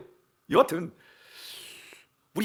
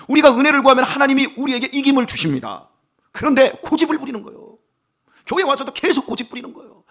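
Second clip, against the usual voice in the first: loud, high pulpit fervor; full-force preaching; 6 semitones higher, 8 dB louder than usual. Acted. Pastor urging the congregation to seek grace, loud fervent preaching. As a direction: preach it out with urgency.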